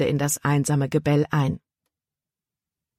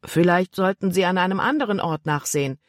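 put-on unbothered boy; 2 semitones higher than usual. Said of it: "Der Junge schien unbekümmert".

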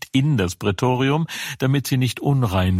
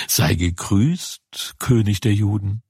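mocking greeting. Soldiers mocking Jesus.

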